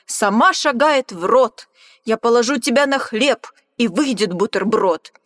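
loud, gloating beast voice; greedy monster. Acted. Gruffalo gloating loudly at the mouse about his sandwich. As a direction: relish the meal out loud.

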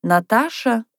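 high, drawn-out call; calling from a room. A narrator's reading. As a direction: call someone in to tea. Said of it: "позвала из комнаты Софья Михайловна".

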